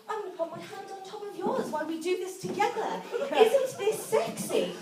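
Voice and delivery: hammed-up niceness to a partner; nice, coaxing mock seduction. Comedian acts coaxing a partner nicely, mock seductive. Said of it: "this can start quite nicely".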